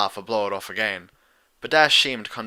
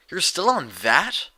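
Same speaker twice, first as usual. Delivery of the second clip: groaning; 7 semitones higher, 4 dB louder, slower than usual. A narrator's reading. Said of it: "Rainbow Dash groaned".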